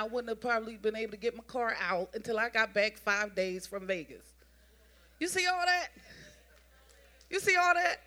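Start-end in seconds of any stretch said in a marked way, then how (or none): 5.2-8.0 high, loud call to the room; lifted preacher's shout; preaching exclamation. Acted. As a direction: make them see it, fired up.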